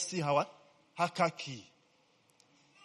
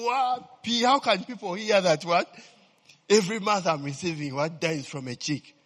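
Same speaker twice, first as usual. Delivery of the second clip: mocking the man; 2 semitones higher, 5 dB louder than usual. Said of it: "So this guy was saying".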